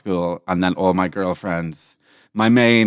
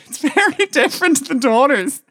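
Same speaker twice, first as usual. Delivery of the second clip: laughing through the words, pitched well up. Real, not acted. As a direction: giggle it out high. Laughs while restarting the sentence.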